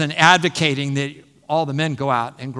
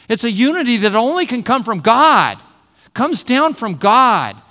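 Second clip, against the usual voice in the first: higher and louder, slowing on "Comes down from God"; preaching emphasis; 5 semitones higher, 6 dB louder than usual. Real, not acted. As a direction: drive the point home to the congregation. Preaching climax on unity from God.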